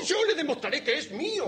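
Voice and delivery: high-pitched angry vow; shouting. Acted. Landowner arguing with the father, shouting. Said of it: "Con gritar no demostrará nada".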